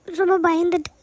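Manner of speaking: scared tearful sobbing through the words; crying. Acted. Frightened employee sobbing to her boss in the dark office. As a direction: sob it out, shaken after the blackout. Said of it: "first நீ அழுகுறத நிப்பாட்டு நிலா".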